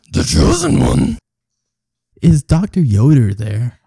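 loud, pushy caller voice; loud insistent caller. Acted. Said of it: "talking to Doctor Yoda".

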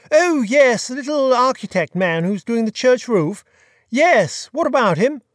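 airy, casual aristocrat; a light touch of breezy gentleman; lord voice. A narrator's reading. Peter recalls Phipps.

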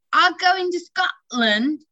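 put-on high, slow child's voice; little girl voice. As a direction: sing it out like an excited kid. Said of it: "Did you see the oldest one".

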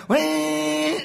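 high gleeful whee. Retold or imitated. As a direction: squeal it with glee. Acting out motorbike ride.

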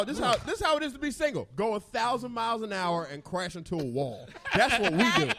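laughing. Real, not acted. Laughing explanation.

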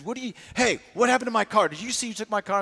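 John demanding answers from the lobby staff, angry. Retold or imitated. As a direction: confront them about the missing car. John confronting lobby desk about car.

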